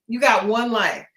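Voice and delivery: got punched; stress on got. Shown as a demonstration. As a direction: hit got in You got one life. Repeated for emphasis.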